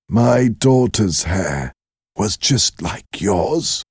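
slow, tender remembering; tender old man. Acted. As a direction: linger gently on the memory. The father remembers his daughter.

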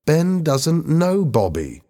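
slow, high-pitched exclamation; exclaiming. A narrator's reading. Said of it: "Lisa exclaimed".

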